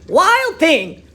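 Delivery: sharp high call across the house. Acted. Mother calls her naughty son, loud and high. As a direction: call him out, scolding. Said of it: "His mother called him".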